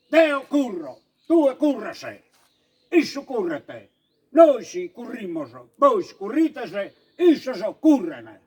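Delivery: same conjugation recited in Sardinian from Barbagia; Sardinian dialect. Shown as a demonstration. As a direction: recite it as a Nuorese speaker would. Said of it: "si allega da su sardo".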